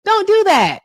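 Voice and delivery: very high, loud cry of protest; shouted protest. Real, not acted. Host calling out for Shauna to stop, shouting.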